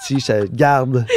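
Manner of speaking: slow, drawn-out words through a laugh. Real, not acted. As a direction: keep it while chuckling. Laughs while keeping the line. (dit lentement en riant)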